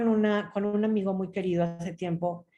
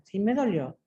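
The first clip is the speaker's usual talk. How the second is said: calm, even-voiced statement; respectful and serene. Shown as a demonstration. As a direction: state the hurt serenely, without pushing. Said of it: "de una forma respetuosa y serena".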